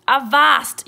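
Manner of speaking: high, very loud pirate yell. A narrator's reading. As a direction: yell a captain's halt. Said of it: "yelled Braidbeard".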